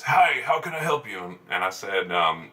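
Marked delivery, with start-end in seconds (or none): 0.0-1.2 lightly voiced store greeter, higher pitch; a chirp-up customer-service hello, lightly imitated. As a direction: mimic a clerk greeting customers. Greeter acted in retold story.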